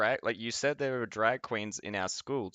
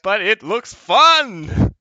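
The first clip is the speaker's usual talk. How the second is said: childish mock voice; 9 semitones higher, 12 dB louder than usual. Mocking people as reckless children, loud childish whine. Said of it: "And they're like".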